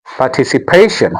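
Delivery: "participation" with PA in the later part stressed; moved stress. Shown as a demonstration. Teacher showing the stress has moved, "participation" stressed partici-PA-tion. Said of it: "to P".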